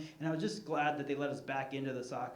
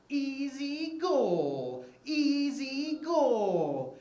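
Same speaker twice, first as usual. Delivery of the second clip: taunt; 8 semitones higher, 5 dB louder, much slower than usual. Retold or imitated. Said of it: "he tells my kid".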